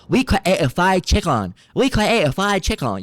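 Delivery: put-on loud, high, slow caricatured Asian accent; mock Asian accent. Streamer mimicking commenters' fried chicken claim, mocking Asian accent.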